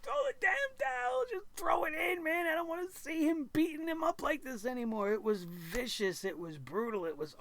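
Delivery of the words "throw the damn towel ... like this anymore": high frantic yell, pitch way up; begging shout. Retold or imitated. Fan at home yelling at the screen to end the fight, frantic high shout. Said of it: "I'm like".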